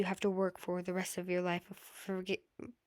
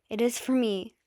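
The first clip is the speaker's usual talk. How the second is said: insistent; 3 semitones higher, 7 dB louder than usual. Acted. Midoriya insisting to Shoto.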